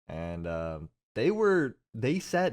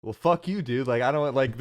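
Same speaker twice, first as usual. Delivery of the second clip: retold angry comeback; 3 semitones higher, 4 dB louder than usual. Acting out waiter's angry comeback.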